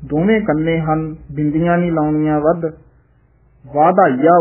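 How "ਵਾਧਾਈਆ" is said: ਵਾਧਾਈਆ, slow, both long a, no nasal; drawn out ਵਾਧਾਈਆ with no nasal ending; slow correct reading. Shown as a demonstration. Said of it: "ਇਹ ਵਾਧਾਈਆ ਹੀ ਉਚਾਰਨ ਕਰਨਾ ਹੈ". (ਵਾਧਾਈਆ ਬਿਨਾਂ ਬਿੰਦੀ)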